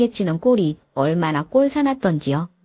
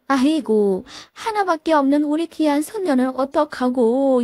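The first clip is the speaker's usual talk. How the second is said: higher, wailing plea from a kneeling mother-in-law; pleading mother-in-law; 5 semitones higher than usual. Acted. Mother-in-law clutches granddaughter, begging daughter-in-law to stay, wailing plea. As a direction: beg her back with fake tears.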